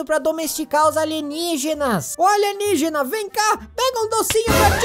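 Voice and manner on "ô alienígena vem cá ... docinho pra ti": high sweet coaxing call; coaxing pet voice. Real, not acted. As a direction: lure it in gently. Coaxing alien with candy.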